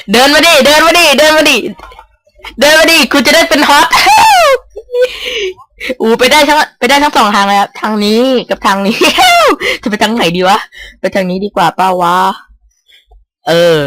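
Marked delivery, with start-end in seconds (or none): 0.1-3.9 excited taunting call. Real, not acted. Taunting opponent in game. 3.9-5.5 high-pitched burst of laughter; shrieking laugh. Real, not acted. Big laugh during game. 9.0-9.8 high-pitched burst of laughter; shrieking laugh. Real, not acted. Laugh during game.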